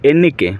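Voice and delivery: এন্নিকে with a held double n; teacher modelling এন্নিকে; Malayalam word demo. Shown as a demonstration. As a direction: model এন্নিকে for students to repeat. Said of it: "আমাকে মালায়ালাম ভাষায় বলে এন্নিকে".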